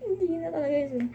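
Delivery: high, posh-sounding put-on voice; hammed-up sophisticated voice; mock sophisticated. Shown as a demonstration. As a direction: play a fancy lady, then crack.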